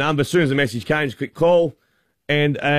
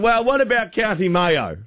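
chummy excitement; 7 semitones higher than usual. Retold or imitated. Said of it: "And I said".

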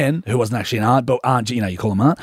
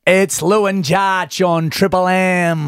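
commentator voice; 3 semitones higher, slower than usual. Shown as a demonstration. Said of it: "You sound like a commentator".

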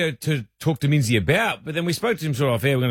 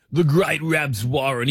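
sports caller impression; 3 semitones lower, slower than usual. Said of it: "when we speak about impersonations".

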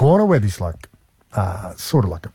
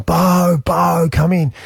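calling out; 6 semitones higher, much slower than usual. Retold or imitated. Cara calling the bird.

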